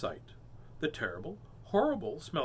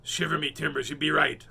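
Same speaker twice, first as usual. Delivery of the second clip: hollered; 4 dB louder than usual. Acted.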